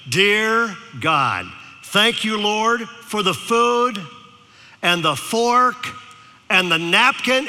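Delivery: put-on a touch of a child's eager prayer; kid's loud prayer. Boy praying aloud in the restaurant, mildly eager. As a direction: pray it out like a proud little boy. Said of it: "prayed the loudest prayer".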